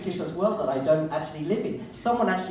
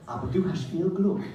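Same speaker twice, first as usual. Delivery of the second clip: reading his text message; 4 dB quieter than usual. Acted. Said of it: "here is my S M S".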